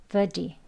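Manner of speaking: verdi with the T voiced into a soft d. Shown as a demonstration. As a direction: model verdi as a lone word, d in the middle. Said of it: "D 발음으로".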